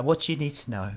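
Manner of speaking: a touch of nerves; nervous old lady. Acted. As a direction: ask it uneasily. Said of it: "looking at you very nervously".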